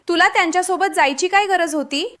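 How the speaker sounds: a touch of narrated exasperation; irritated. A narrator's reading. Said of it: "अर्पितावर चिडली आणि म्हणाली".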